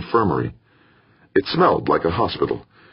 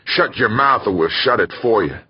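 higher-pitched acted threat; angry threat; 5 semitones higher than usual. Second convict threatening the moaning sleeper, angrily. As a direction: warn him off angrily, pitched up.

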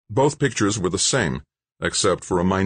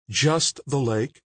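slow, higher, acidly disbelieving; acid question; 8 semitones higher, much slower than usual. Acted. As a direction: repeat it back with biting scorn. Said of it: "the mayor asked acidly".

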